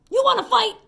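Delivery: high, loud challenge; grouchy shout. Acted. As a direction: call out like a cocky bully. Grouchy ladybug picks fights.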